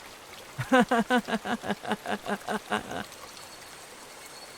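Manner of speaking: long airy high-pitched giggling; a long creepy breathy giggle; breathy eerie giggle. Acted. Reina giggling as she follows Keiichi, breathy giggle.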